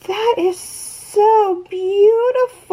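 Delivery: gasp, then gush close to crying; really overwhelmed by a gift; tearful awe. Real, not acted. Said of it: "Here come the tears".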